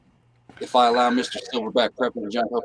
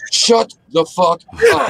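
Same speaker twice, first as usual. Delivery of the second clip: shouting through laughter; 9 semitones higher, 5 dB louder, slower than usual. Retold or imitated. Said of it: "just Josh would be that".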